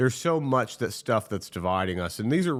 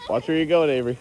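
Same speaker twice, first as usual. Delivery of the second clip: calling out; 6 semitones higher, 6 dB louder, faster than usual. Real, not acted. Calling out to sledding kid.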